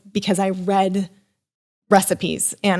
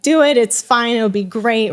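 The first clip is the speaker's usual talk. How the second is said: retold urging; 2 semitones higher than usual. Husband retold as urging her on.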